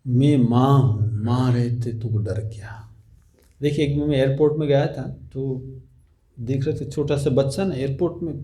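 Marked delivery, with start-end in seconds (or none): 0.1-2.9 mild reassuring mother. Acted. Holy Mother reassures her child. (धीमी, नीची, ममता भरी माँ की आवाज़)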